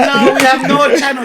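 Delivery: high, loud imitation; laughing mimicry of a stranger; broken-English imitation. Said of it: "He said".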